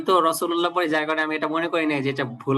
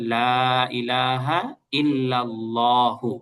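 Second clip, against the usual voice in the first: slow, drawn-out Arabic recitation; careful recitation; much slower than usual. Shown as a demonstration. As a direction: recite it clearly for students to copy. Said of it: "আমি একটু ভালো করে পড়তেছি". (ধীরে, স্পষ্ট করে কালিমা তিলাওয়াত)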